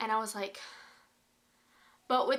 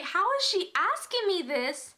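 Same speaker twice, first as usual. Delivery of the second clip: panicky; 8 semitones higher, 4 dB louder than usual. Retold or imitated. Panicked inner thought.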